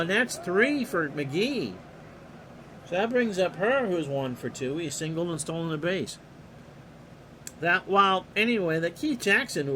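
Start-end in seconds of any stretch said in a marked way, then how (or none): 0.0-6.2 steady announcer call of the action; play-by-play. Acted. Announcer calling the pitch to the listeners, play-by-play. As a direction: call the game like a radio announcer.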